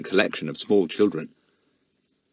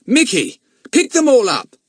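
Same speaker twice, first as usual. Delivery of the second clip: stern, raised scolding voice; 13 semitones higher, 6 dB louder than usual. A narrator's reading. Boy scolding his pet monkey, stern. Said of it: "he said sternly".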